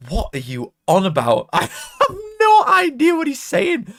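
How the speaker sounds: high, squeaky laughing disbelief, retold; laughing bafflement. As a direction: crack up as you act out being baffled. Retelling his baffled reply, laughing.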